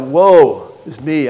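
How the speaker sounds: Isaiah's slow, loud lament; crying out. Acted. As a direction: call out the woe slowly. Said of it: "Isaiah cries out".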